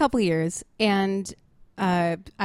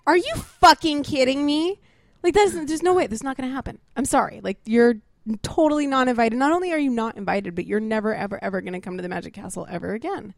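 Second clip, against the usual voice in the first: angry retort; 3 semitones higher than usual. Retold or imitated. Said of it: "And I was like".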